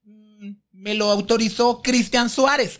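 slow, stalling reply; hesitate, then offer the name carefully; hesitant answer. Retold or imitated. Interviewer telling the diva who gave permission, hesitant answer. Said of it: "Y yo".

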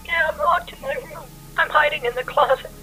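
hushed, tearful voice; whispering while hiding. Acted. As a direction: keep your voice down, scared. Girl hiding in closet.

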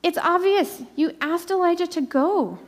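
God calling Elijah out, insistent; a lightly voiced, demanding God; voicing God. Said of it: "And God says".

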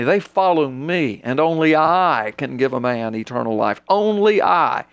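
mock grandiose preacher. Preacher mocking himself claiming godhood.

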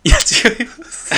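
squeaky high denial, slow; high voice, slowly; high-pitched denial. Real, not acted. Emphatic playful denial.

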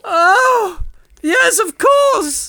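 very high, slow swooning damsel; hammy stage actor. Acted. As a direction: swoon over every word. Damsel greets her knight.

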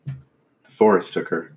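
slow, loud, haunted insistence. Acted. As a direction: spell it out in dread. Father insists, slowly.

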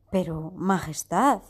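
slow, a touch of begging; pleading hunter. Acted. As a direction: plead gently with the queen. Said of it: "suplicó el cazador".

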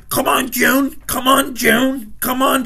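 a nagging whine at the coach, over and over; whiny impression of Ben DiNucci. Mocking the quarterback yelling at June Jones, whiny. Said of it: "That's what he does".

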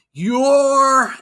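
high, loud shouted cutoff; sudden high mock yell. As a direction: yell it like a cartoon demon. Demon Vince shouting.

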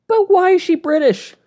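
high, loud incredulous question; exasperated outburst. Real, not acted. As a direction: burst out in comic disbelief. Exasperated rant at accent choice.

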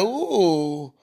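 low, drawn-out "ooh" as Karma; Karma spotting prey. Pretend. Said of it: "Karma turns her head like".

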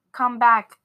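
loud call after her; yelling. Retold or imitated. Man yelling for the girl to return. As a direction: shout it after the fleeing girl. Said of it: "the man was yelling".

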